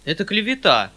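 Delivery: высокий громкий возглас смущения; воскликни громче, сконфуженно протестуя; возмущённый вскрик. A narrator's reading. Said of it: "вскричал дядя, покраснев и ужасно сконфузившись". (сконфуженный протест)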